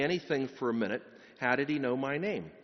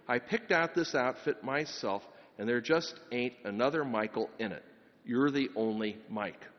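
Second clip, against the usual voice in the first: a touch of kindness, gently lowered; kindly. Acted. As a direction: speak kindly, easing down. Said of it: "the sergeant said kindly".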